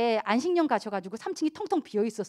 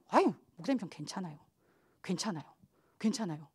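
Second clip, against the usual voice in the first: much softer, lower 괜찮아요 repeated gently; soft humble reassurance; 6 semitones lower, 9 dB quieter, faster than usual. Retold or imitated. Deacon reassuring the pastor, soft and low. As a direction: quietly wave off the worry.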